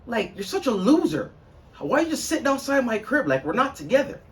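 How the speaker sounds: mock her taunting the ex; put-on high female voice, mocking; imitating girlfriend. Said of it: "she's like".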